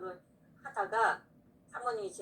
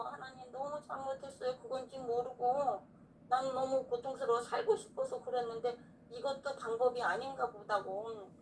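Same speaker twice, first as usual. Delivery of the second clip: tearful repentance; 3 semitones higher than usual. Retold or imitated. Repenting before God, tearful.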